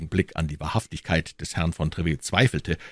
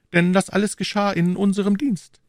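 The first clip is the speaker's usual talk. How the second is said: higher royal voice, firm; the king's voice, raised pitch. A narrator's reading. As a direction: speak as the king, assured. King voiced.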